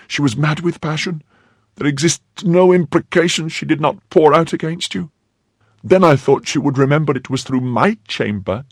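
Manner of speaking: high, agitated maid's voice; frightened maid Kitty. A narrator's reading. Maid telling her protector of her escape, high and agitated. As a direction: pour out the tale in a high, anxious voice.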